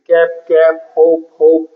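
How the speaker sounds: કેપ and હોપ ending on the P, final E silent. Shown as a demonstration. Teacher showing magical E, કેપ and હોપ with silent E. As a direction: say કેપ, હોપ with no E sound after the P. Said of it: "એ silent રહી જાય છે".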